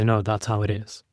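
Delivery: "No, that's how it is." with a low, falling end; "No, that's how it is." said firmly, dropping down to close it; absolute statement. Shown as a demonstration. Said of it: "If I wanna make a statement that is absolute".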